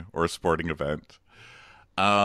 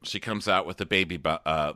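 normal talking voice

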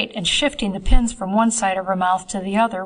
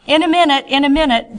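calling out; 6 semitones higher, 6 dB louder, faster than usual. Acted. Calling out from under dress.

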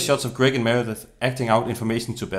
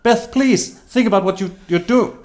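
very high, loud plea; alarmed pleading; 10 semitones higher, 6 dB louder than usual. Acted. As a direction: beg a friend to stop and think. Pleading with hammer-wielding friend.

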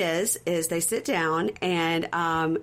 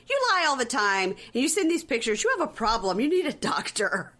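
higher-pitched mock telling-off; retold scolding; 5 semitones higher than usual. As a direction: lay into him, imitating her accusation. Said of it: "she goes".

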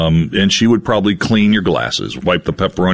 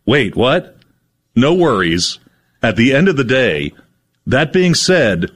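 slow, weighty reading of each phrase; deadpan list reading; 2 semitones higher, slower than usual. Acted. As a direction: read each phrase like a solemn announcement. Rereads the list.

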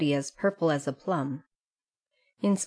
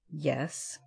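softer, sulky one-word answer; sullen growl; 2 semitones lower, 9 dB quieter than usual. A narrator's reading. Scolded boy Dan answering sullenly. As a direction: mutter it resentfully. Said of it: "growled Dan sullenly".

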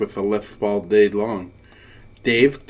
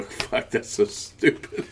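scornful adult; 7 dB quieter, slower than usual. Retold or imitated. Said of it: "now as an adult, I go".

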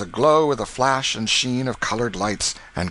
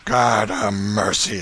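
alarmed exclamation; 4 dB louder, slower than usual. Acted. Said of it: "exclaimed Canty".

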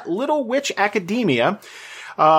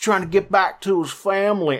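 bad Southern accent. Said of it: "he talks like that the entire time".

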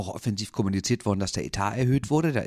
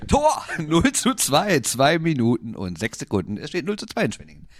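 screaming goal commentary; 6 semitones higher, 5 dB louder than usual. Pretend. Second goal called out.

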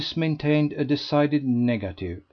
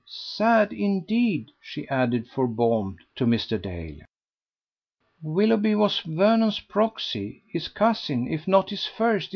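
higher, precise explaining voice; prim elderly sisters; 8 semitones higher than usual. A narrator's reading. The Patterne sisters correcting Lady Busshe, prim. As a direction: set the record straight primly.

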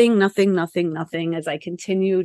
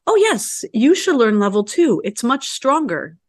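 eager teacher; 4 semitones higher than usual. Retold or imitated. Teacher eagerly recommends level two.

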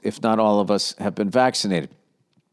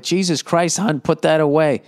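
higher, half-hearted blurted yell; mock yell, raised in pitch; blurted mild yell; 4 semitones higher than usual. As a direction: blurt it out like an alarmed boyfriend, not full volume. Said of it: "shouldn't have yelled that shit".

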